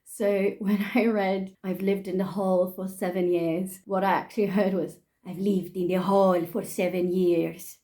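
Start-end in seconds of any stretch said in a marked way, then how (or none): 5.2-7.8 hammed-up Italian accent; badly faked Italian accent, drifting toward Spanish. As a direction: put on a thick mock Italian accent. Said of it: "I hear this with, like, an Italian accent".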